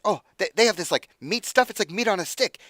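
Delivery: high, loud, eager little imp voice; excited imp. Acted. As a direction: pester the boss like a greedy little imp. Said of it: "He said".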